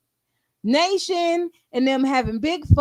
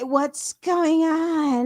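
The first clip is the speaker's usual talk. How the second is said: slow, drawn-out "What's going on?"; lightly voiced dopey mom; mocking Charlene again; 3 semitones higher, much slower than usual. Imitating Charlene asking what's happening, slow mock. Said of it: "She might be a little scared of J".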